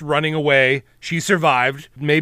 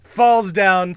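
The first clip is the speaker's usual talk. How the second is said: normal talking voice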